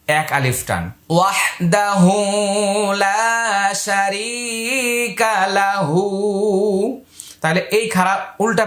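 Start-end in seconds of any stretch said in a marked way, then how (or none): 1.1-7.0 লা শারিকা with long drawn vowels, very slow; very slow recitation. Shown as a demonstration. Teacher modelling the phrase slowly for students. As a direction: stretch every vowel in a slow chant. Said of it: "teacher models slow recitation".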